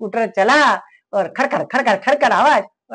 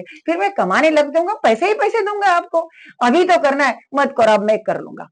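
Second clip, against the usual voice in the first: angry son; 3 semitones higher, 4 dB louder than usual. Retold or imitated. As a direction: snap at the father in frustration. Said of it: "गुस्से में बोला". (पापा पर गुस्से में चिल्लाता बेटा)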